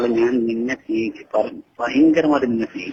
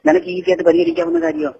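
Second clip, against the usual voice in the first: crying; 9 semitones higher, 8 dB louder than usual. Real, not acted. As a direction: voice breaks into real crying, much higher. Father repeats question, breaking down. (കരഞ്ഞുകൊണ്ട് ഉയർന്ന ശബ്ദത്തിൽ)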